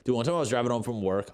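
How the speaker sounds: blurted out fast, then dropped; quick, eager start to the story; rushed start. Real, not acted. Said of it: "I'll get back to that story".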